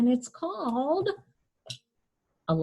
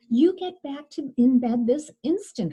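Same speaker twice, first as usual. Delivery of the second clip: firm order; 4 semitones higher, 4 dB louder than usual. Acted. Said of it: "her mother ordered".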